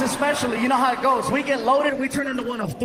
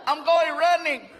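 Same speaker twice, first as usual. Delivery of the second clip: put-on drunk whoop; 6 semitones higher, 5 dB louder than usual. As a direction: whoop like you're wasted. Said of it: "you hear something like".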